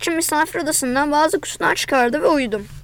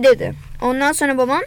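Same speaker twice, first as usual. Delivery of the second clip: usual speaking voice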